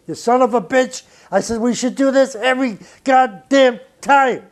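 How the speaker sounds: rough affectionate cheer; retold delight. Praising Miles after great solo.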